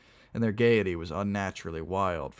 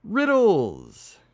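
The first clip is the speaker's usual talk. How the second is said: high, loud, drawn-out shout; 12 semitones higher, 10 dB louder than usual. Acted. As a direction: shout it to silence the room. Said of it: "managed to shout".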